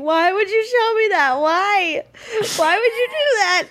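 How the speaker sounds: high upset pleading, half crying; panicked pleading. Retold or imitated. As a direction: plead with the wall as if it betrayed you. Retelling freaking out at wall.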